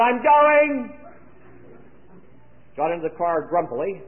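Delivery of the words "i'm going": high, ringing re-enacted announcement; loud call. Father deciding to join the shore trip, calling loudly. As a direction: belt out the decision, voice pitched way up. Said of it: "I called loudly and said".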